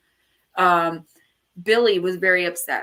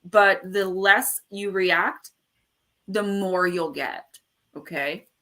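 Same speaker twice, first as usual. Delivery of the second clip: slow advice; slower than usual. Real, not acted. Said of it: "I just wanna let you guys know".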